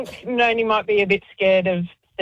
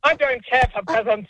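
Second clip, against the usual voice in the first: snobbish cat. Acted. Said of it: "chat to Theo?".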